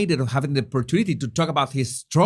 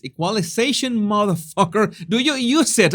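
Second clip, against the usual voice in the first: frustrated outburst; 5 semitones higher than usual. Real, not acted. Venting at the sound engineer.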